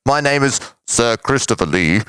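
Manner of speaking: put-on hesitant elderly actor voice; Christopher Lee impression. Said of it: "That's not a bad impersonation".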